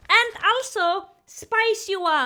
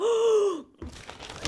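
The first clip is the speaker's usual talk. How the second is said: imitated crowd gasp; 2 semitones higher, 3 dB quieter than usual. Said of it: "people around them are like".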